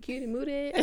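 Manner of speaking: "mooted" with an oo in place of mute's "you" sound; playful "Cutie mooted", oo in "mooted"; simplified catchphrase. Pretend. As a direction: say "Cutie mooted" as one squashed cute phrase. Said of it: "That's a simpler version".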